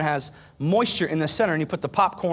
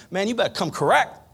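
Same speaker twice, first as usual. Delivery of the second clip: seventh-grade slang; 5 semitones higher than usual. Retold or imitated. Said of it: "We used to say that back in seventh grade".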